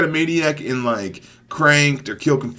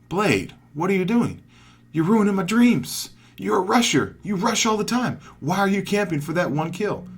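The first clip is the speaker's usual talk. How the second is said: higher-pitched voice of a let-down viewer; doubting viewer; 6 semitones higher than usual. Acted. Viewer pleading with Blade about camping, mock complaint. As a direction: protest like a disappointed fan. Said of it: "you may be thinking".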